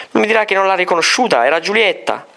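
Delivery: can't believe she missed it; surprised. A narrator's reading. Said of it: "si stupì la reverenda madre".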